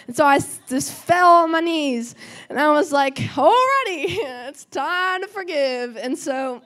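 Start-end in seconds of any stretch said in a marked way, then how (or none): 3.2-6.0 laughing surrender. Retold or imitated. Giving in, laughing, on knees.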